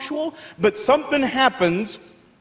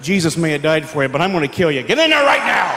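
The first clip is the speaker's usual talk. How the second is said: menacing dad; 8 semitones lower, faster than usual. Retold or imitated. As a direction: growl a threat at the kids. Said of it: "Here's how Dad would get us".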